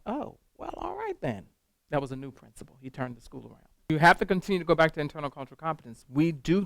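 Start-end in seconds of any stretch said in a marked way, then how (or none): 0.1-1.5 high, taken-aback "oh well, all right then"; sheepish mock surprise, much higher. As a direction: play it caught off guard, voice jumping up. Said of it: "I was like".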